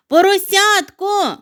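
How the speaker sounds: slow, high, loud drawn-out call; long call. Acted. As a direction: stretch the name out across the snow. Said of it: "загукав він".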